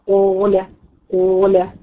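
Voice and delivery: drawn-out قال with a Ta-like start; qaf mispronounced like Ta. Shown as a demonstration. Teacher repeating beginners' mistake, qaf turned Ta-like. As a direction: press the first sound of قال into heavy ط. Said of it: "عامل زي ما تكون حرف الطاء".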